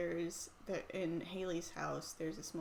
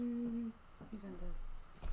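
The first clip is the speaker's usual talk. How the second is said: zombie impression; 3 semitones higher, much slower than usual. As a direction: moan it like a zombie. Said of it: "That's my zombie impression".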